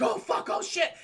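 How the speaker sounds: high, whispered panic; breathless terror at the wall; panicked whisper. Retold or imitated. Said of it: "She's like".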